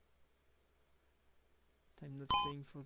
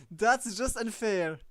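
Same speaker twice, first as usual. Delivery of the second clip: slow indignant complaint; 3 semitones higher, 9 dB louder than usual. Real, not acted. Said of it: "I'm actually quite angry".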